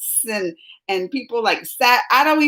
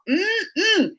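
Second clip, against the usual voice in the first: imitated Chappelle hum; 8 semitones higher than usual. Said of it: "it just his little".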